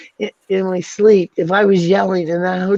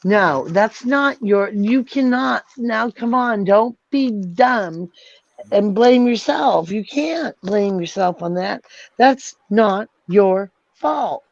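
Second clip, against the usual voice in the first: angry insistence; 4 semitones higher, slower than usual. Real, not acted. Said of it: "that's how mad I am".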